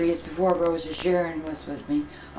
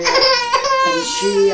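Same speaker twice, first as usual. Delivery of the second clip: breaking down crying; 5 dB louder than usual. Acted. Grandmother breaks down telling story.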